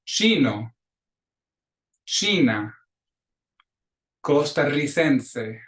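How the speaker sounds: slow, deliberate model pronunciation; teacher modeling Spanish words; repeat-after-me drill. Shown as a demonstration. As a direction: say each word clearly for a class to echo. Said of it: "clases repitan".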